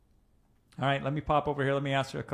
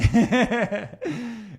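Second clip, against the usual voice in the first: big laugh; 9 semitones higher, 8 dB louder than usual. Real, not acted. Laughing at own punchline.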